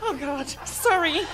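shaky voice, trembling from nerves; shaking too hard to speak steadily; teeth chattering. Real, not acted. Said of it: "I can't stop shaking".

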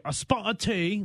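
mock British cliché. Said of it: "we don't say the cliche".

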